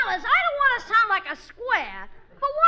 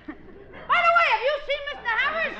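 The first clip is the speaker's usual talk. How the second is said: slow, careful cue; 4 semitones higher than usual. Shown as a demonstration. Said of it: "Better try it again".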